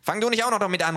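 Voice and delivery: high, loud irritated shout; high angry yell. Acted. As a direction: snap at the other one loudly. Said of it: "ruft der Kleine".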